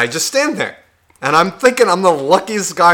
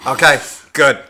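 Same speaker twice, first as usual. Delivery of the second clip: louder, bossy barked directions; mock instructor directing; 4 dB louder, slower than usual. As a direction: call out each turn like a pushy driving coach. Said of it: "He was just like".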